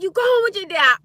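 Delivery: high, loud imitation of mom; mock outburst from an exasperated mother; spazzing mom. Teller quotes mom about going with dad, mock spazzing. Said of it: "my mom started spazzing".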